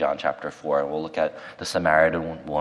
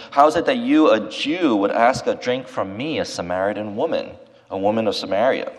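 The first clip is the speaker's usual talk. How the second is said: a preacher's mildly startled woman, rising at first; startled surprise; 2 semitones higher, 4 dB louder than usual. Retold or imitated. The Samaritan woman startled when Jesus asks her for a drink. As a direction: voice her taken aback, then settling. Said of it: "startled. She's surprised".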